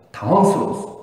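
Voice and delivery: ordinary talk, nothing marked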